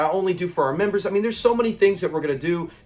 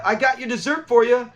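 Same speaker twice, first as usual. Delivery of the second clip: sweetly calling out for Lamont, a bit higher; kindly calling; 4 semitones higher than usual. Retold or imitated. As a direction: call him like a friendly father hiding a threat. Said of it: "he says it so kindly".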